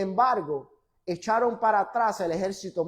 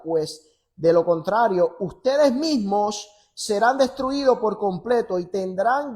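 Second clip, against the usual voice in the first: loud, emphatic Bible reading; forceful pulpit reading with measured pauses; scripture reading; 3 semitones lower, 4 dB louder than usual. Acted. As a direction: proclaim the verse firmly, phrase by phrase. Reads scripture aloud forcefully.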